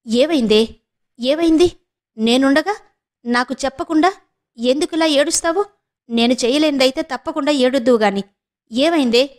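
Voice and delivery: put-on alarmed older sister pressing her sister; anxious, rushed concern; flustered and afraid. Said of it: "కంగారుగా, భయంగా అడిగింది మేనక".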